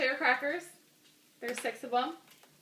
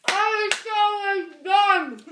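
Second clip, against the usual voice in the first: loud exclaim; 6 semitones higher, 5 dB louder, slower than usual. Real, not acted. Loses the cracker challenge.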